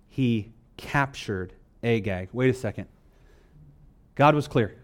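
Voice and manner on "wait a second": ordinary talk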